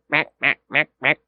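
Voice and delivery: low, short duck quacks; quick imitation of quacking; imitated duck quack. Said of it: "instead of just going".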